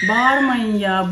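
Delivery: exasperated loud plea to stop shouting; scolding call. Real, not acted. Mother scolds shouting kids.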